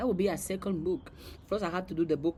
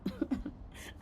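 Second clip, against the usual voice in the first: soft, higher-pitched put-on giggle; acted laugh; 7 semitones higher, 7 dB quieter than usual. Quoting someone laughing at the Ferrari, light acted laugh. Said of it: "I'm laughing at the Ferrari".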